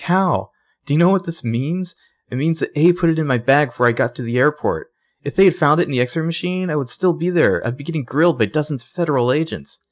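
a frantic high-pitched spiral; freaking out. Retold or imitated. Spencer freaking out, voiced.

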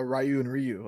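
first "Ryu" as rye-you, second as ree-you; two pronunciations. Shown as a demonstration. Host comparing pronunciations, "Ryu" as rye-you, then ree-you. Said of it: "I've been saying it wrong".

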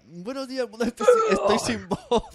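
mock host greeting. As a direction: parody the host's on-air hello, straining with a laugh. Mimics host's radio greeting, no voice. (imitación burlona del saludo del presentador, aguda y lenta)

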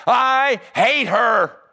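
slow, loud, high sobbing cry; sobbing outburst. Retold or imitated. Woman in the pastor's study sobs out her hatred, loud and high. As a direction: blurt it out through tears. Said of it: "in the middle of her sob".

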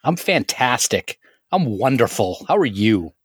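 overly emphatic cheer, laid on thick; sarcastic pep, word by word. Real, not acted. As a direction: insist you're wonderful, with obvious sarcasm. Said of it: "That sounds a whole lot like sarcasm".

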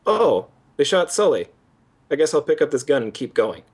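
mildly mocking, blithe 'oh well' delivery; understated mock dismay that shrugs itself off; mock indifference. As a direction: play the hero's token reaction, barely bothered. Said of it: "Nathan Drake's character goes through is".

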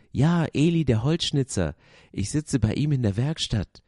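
put-on cheerful little wooden girl explaining; bright girl puppet. A narrator's reading. Lucia answers eagerly. (deutlich höhere, lautere Mädchenstimme)

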